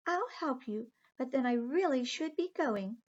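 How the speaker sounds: high, sweet little mermaid; light, dainty sea creature voice. Acted. Aqua offers help.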